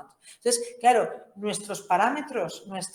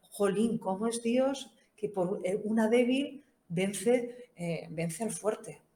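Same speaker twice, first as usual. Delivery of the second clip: asombro imitado; 2 semitones higher, slower than usual. Retold or imitated. Imita la reacción de ellos.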